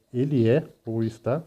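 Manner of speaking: slow, word-by-word literal translation; careful classroom word-for-word read. Shown as a demonstration. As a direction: spell out each word slowly. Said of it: "vai ficar assim".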